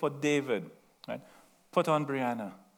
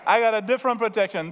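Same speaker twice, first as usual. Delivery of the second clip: laughing through the line; 5 semitones higher, 4 dB louder, much faster than usual. Retold or imitated. Laughs while voicing David.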